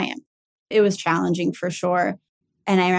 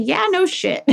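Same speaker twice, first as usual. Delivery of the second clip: much higher, mock-amazed sarcasm; sarcastic retort; 12 semitones higher than usual. Answering doctors who announce the known tumor, sarcastic. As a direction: throw it back as blatantly obvious. Retold retort to obvious diagnosis.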